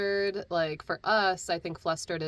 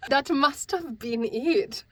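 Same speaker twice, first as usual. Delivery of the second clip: put-on loud, cheerful German accent, higher; 4 semitones higher, 7 dB louder than usual. Voice actor jokes about the audition in a German accent. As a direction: keep the German accent going, louder. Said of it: "continue with the accent until we are done".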